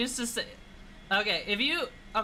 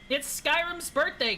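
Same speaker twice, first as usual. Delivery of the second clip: 1 excited announcement; 6 semitones higher, slower than usual. Acted. Repeats announcement higher.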